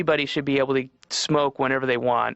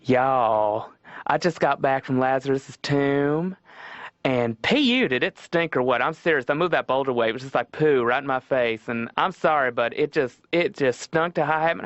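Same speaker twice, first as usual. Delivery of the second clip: put-on effeminate Southern accent. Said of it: "an effeminate Southern man".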